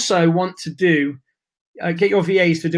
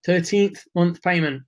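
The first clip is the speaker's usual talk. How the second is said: losing voice. Real, not acted. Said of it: "I'm losing my voice".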